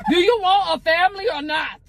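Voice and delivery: angry shout. Real, not acted. Wife shouting at husband about keeping the money, angry. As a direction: snap it at him, fed up.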